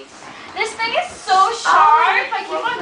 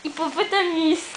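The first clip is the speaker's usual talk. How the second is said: put-on a laughing, half-hearted French accent on hippopotamus; mock French hippopotamus, said a little softer; 3 semitones lower, 4 dB quieter than usual. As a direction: try hippopotamus the French way, giggling. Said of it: "say hippopotamus with a French accent".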